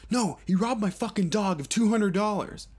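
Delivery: high, frantic yell, dragging out the question; crazed yelling. Retold or imitated. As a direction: scream it like a wired junkie demanding answers. Crackhead insists, voiced by teller.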